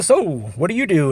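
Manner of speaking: imitating a jovial cop making small talk; friendly, chatty question. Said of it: "he's all jovial and everything".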